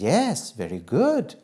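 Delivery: pleased parental singsong; praising mother. Acted. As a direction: praise a small child approvingly. Mother praises child again.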